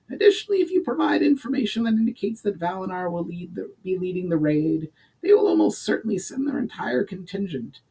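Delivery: high, eager goblin voice; excited goblin. Acted. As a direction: sell the scheme with triumphant glee. Urgar explains knowingly.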